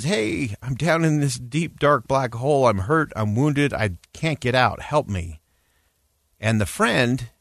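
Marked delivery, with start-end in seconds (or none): 0.0-5.4 retold shout. Man in a hole calls up to a passing friend, mild mock shout. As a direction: imitate calling up from below, without real volume. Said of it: "he shouts up and he says".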